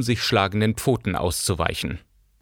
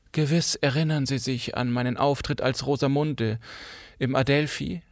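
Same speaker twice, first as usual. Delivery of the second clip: affected actress; 4 semitones higher, 4 dB quieter than usual. Acted. Cora, affected former actress.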